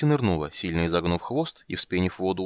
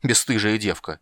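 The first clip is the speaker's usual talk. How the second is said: mild bark; 2 semitones higher, 3 dB louder than usual. Acted. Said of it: "рявкнул он".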